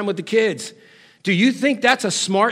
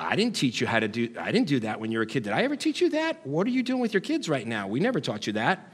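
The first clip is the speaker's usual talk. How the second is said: swooping, nagging, disapproving scolding voice like a parent; 7 semitones lower, 7 dB quieter than usual. Imitating parents who keep nagging an adult child: imitating nagging parents. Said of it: "they keep potentially nagging at you".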